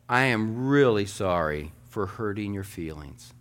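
gentle, measured "I am really sorry"; sincere apology. Shown as a demonstration. Pastor showing a congregation the kind way to apologize, sincere. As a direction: apologize as if you mean it, unhurried. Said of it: "say this same sentence two different ways".

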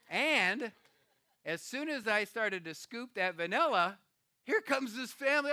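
excited. Real, not acted. Building to the surprise encounter.

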